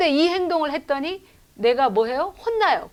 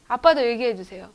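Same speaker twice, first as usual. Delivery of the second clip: normal talking voice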